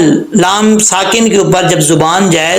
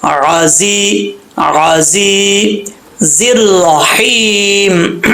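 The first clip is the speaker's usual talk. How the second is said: slow, drawn-out chanted recitation; tajweed recitation; Quranic recitation; much slower than usual. Shown as a demonstration. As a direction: recite each word long and measured. Recites the verse.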